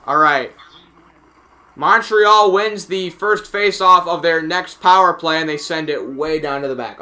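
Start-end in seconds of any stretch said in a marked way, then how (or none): 1.8-7.0 brisk hockey faceoff call, settling at the end; live commentary easing off as the puck clears; play-by-play. Acted.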